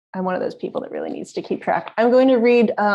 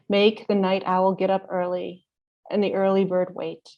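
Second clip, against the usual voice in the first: measured poem reading, phrase by phrase with long pauses; poetry reading. Acted. Poet reads segments of her long poem to an audience, measured recital. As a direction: read it deliberately, each line opening firmly and falling away.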